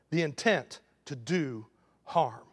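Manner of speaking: preacher repeating the definition softly; soft slow repeat. Real, not acted. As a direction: let it sink in quietly. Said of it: "repeated slow and soft".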